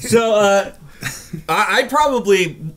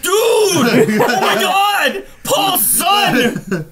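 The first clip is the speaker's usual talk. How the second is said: excited; 9 semitones higher, much slower than usual. Real, not acted. Excited recognition of John Connor.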